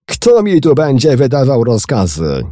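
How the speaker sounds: high, loud furious shout; the captain yells at the passenger. A narrator's reading. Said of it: "krzyknął". (krzyk wściekłego kapitana)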